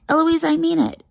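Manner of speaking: high-pitched scolding shout; exasperated tutor raising the voice; angry shout. A narrator's reading. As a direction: shout a sharp warning at a pupil. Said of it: "And then he shouts".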